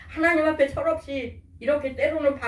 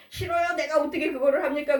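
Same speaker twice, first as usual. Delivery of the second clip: higher-pitched acted protest; mildly defiant imitated objection; stubborn refusal; 5 semitones higher than usual. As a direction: refuse like an obstinate child. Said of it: "고집 부리고 안 하고".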